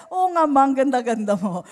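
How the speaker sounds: loud, playful retold praise; insistent compliment.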